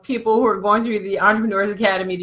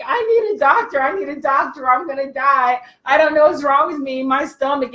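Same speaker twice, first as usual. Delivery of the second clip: hammed-up panic; 4 semitones higher than usual. Man cries for doctor.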